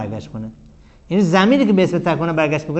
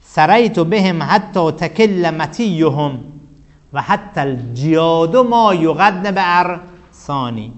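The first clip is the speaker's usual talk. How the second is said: slow, drawn-out verse chant; reciting Arabic verse; much slower than usual. Shown as a demonstration. Teacher recites the poet's verse to the class, slow chant. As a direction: intone the poet's line slowly. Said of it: "صدر بیت این هستش".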